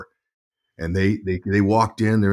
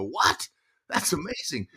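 high, softer mock astonishment; retold amazement; 6 semitones higher, 6 dB quieter than usual. Son hearing the bonus, high amazed reaction. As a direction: act out a thrilled son.

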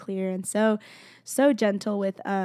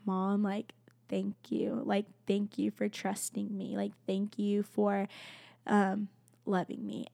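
softer, slow, heartfelt thanks; soft, slow gratitude to her mother; tender thanks; 6 dB quieter, slower than usual. Retold or imitated. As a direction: thank mom quietly and slowly. Thanking mom, deeply moved.

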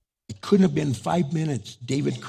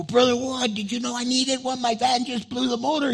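high, amazed disbelief; astonished; 10 semitones higher than usual. Retold or imitated. Pastor astonished that a brother offers a motor, high pitched. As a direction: sound stunned by the news.

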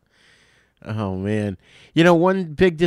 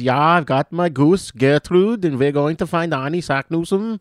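mock Swedish accent; 5 semitones higher than usual. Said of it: "to me, a Swedish accent is the".

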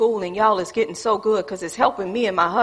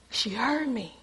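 hushed aside; 12 dB quieter than usual. Shown as a demonstration. Quiet aside after whisper demo.

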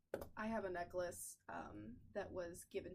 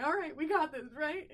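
higher and louder, forced pep; mock brave pep talk; nervous hype; 7 semitones higher, 11 dB louder than usual. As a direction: pump yourself up, unsure. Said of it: "And I was like".

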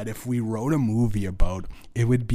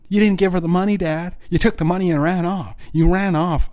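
higher and louder, accusing his dad; raised voice hurling the blame at his father; angry outburst; 6 semitones higher, 5 dB louder than usual. Real, not acted. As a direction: let it burst out at him, fast. Ranting at his absent dad.

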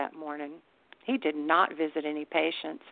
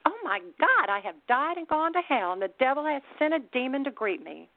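high-pitched acted outcry, held back in volume; mock screech; 8 semitones higher than usual. A narrator's reading. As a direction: screech it in a high, horrified voice without shouting. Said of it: "she screeched".

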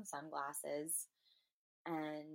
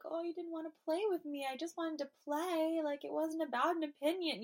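put-on high, hurt child's voice, louder and quicker; little girl; 11 semitones higher, 6 dB louder than usual. Inner little girl protesting to the rejecting man, high childlike hurt. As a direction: plead like a small kid left out of the game. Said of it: "the little girl inside me that's like".

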